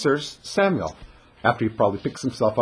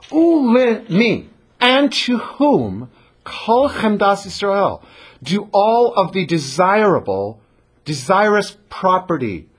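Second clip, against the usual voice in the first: slow, higher, drawn-out question; provocative rhetorical question; 4 semitones higher, slower than usual. Retold or imitated. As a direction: tease him with it, slowly. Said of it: "a very provocative question".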